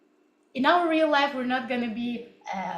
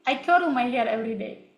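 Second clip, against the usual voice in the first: "curl" said as Russian-accented "korl". Shown as a demonstration. Teacher repeating the misheard test sentence, Russian accent. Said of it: "I was also speaking in this way".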